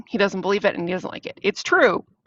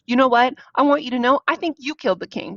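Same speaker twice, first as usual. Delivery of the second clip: mock-indignant accusation, higher and louder at the start; turning on him; 4 semitones higher, 4 dB louder than usual. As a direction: lash out with an acted accusation. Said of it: "Oedipus totally turns on Tiresias here".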